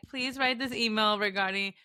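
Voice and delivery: measured, dictating a request to ChatGPT; reading out a prompt. Retold or imitated. Friend reads out her ChatGPT email prompt, dictating. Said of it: "be like".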